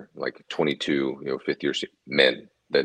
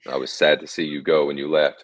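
ordinary talk, nothing marked

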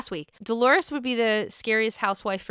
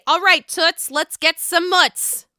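Danielle; 6 semitones higher, 5 dB louder, slower than usual. Retold or imitated. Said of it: "we get good old Danielle to say".

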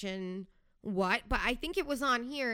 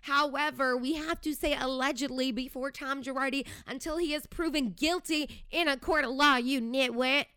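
sarcastic comeback; 4 semitones higher than usual. Retold or imitated. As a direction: talk down to the nitwit. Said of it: "And I'm like".

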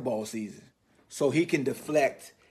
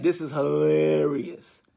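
drawn-out quote; slower than usual. Retold or imitated. Quoting an amused reaction.

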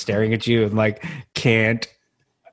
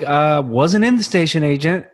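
slowed, pointed mock indignation; imitating his own offended correction to a fan; mock aggressive; 5 semitones higher, 4 dB louder than usual. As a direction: bristle a little at the fan's mistake. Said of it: "I didn't say it so aggressively".

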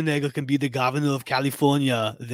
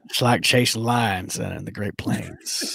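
Matthew McConaughey impression; slower than usual. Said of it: "I was doing my best Matthew McConaughey".

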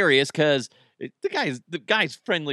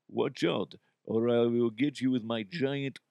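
mock Russian accent threat; 2 semitones lower, 4 dB quieter than usual. Comic voicing the weird neighbor's threat, Russian accent. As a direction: lay on a put-on Russian accent. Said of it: "I would do a Russian accent".

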